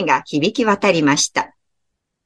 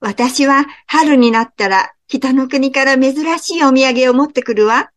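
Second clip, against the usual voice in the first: gentle bird; 6 semitones higher than usual. Acted. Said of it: "渡り鳥も羽を広げながら言いました".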